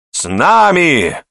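high, drawn-out answering cheer; joyful response. A narrator's reading. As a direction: echo the cry as a glad crowd. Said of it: "радостно отозвались остальные". (радостный отклик)

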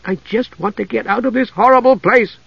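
high, exasperated heroine voice; snappish. A narrator's reading. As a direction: cut the chatter off in fraught irritation. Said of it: "Usha snapped".

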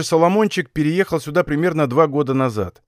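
plain reading voice

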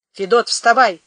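loud wake-up call. Acted. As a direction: rouse him from bed, loud. Waking a sleeping man.

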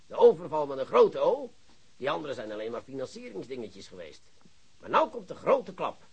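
ordinary delivery

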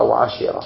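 وعشرة with a short i after the shin; kasra on the shin. Shown as a demonstration. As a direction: say وعشرة as "wa-ashira". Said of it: "والفتح والكسر".

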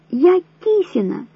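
slow, high, each word forced out. A narrator's reading. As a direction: repeat it slowly, desperate. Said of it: "истерично закричала Вера".

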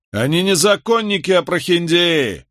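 high mocking yell; jeering shout. A narrator's reading. The twins jeer at the lawyer from the crowd. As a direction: shout them down from the square. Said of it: "донеслось с площади".

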